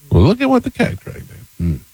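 put-on southern accent. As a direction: sing it out like a Southern hostess greeting a guest. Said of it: "Why did you say it in that voice?".

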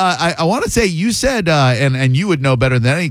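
usual speaking voice

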